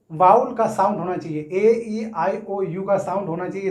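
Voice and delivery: ordinary delivery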